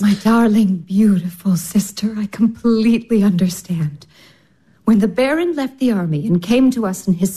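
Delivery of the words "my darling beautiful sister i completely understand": sisterly comfort, whispered; tender whisper. Acted. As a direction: hush and soothe her. Olga comforting her sister softly.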